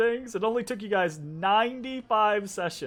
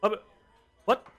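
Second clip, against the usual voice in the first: high, loud squealing whine; squealing protest; 7 semitones higher, 9 dB louder, slower than usual. Acted. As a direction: squeal like a slapped drunk. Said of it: "squeals that you go to swing".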